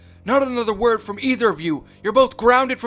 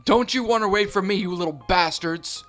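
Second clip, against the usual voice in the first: higher, louder chasing scream; furious yell; 5 semitones higher, 5 dB louder than usual. Acted. Mother charging after her fleeing sons, furious loud yell. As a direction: roar it after them.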